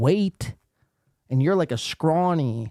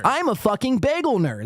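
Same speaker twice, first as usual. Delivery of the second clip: raised, mocking nerd voice; mock nerd line; 10 semitones higher than usual. Streamer mocking the guest's line in a raised voice. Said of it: "That's what he should have said".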